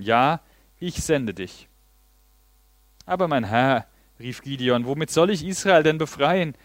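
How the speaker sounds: steady Bible reading to the congregation; scripture reading. Acted. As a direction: read the Judges passage out as the text. Pastor reads Judges 6 aloud.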